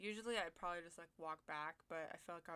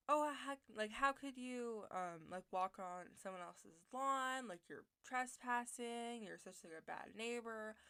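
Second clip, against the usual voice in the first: mildly indignant retold scolding, pitched up; mock yelling; 4 semitones higher, 4 dB louder than usual. Neighbor scolding a teen for crossing her lawn, mock yelling. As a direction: imitate an angry neighbor's telling-off, half-strength. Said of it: "she started yelling at me".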